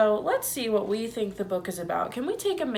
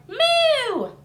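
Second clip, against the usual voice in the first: very high loud moo; hen crying moo; 6 dB louder than usual. A narrator's reading. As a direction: stretch up and cry it out. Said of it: "stretched her neck and cried".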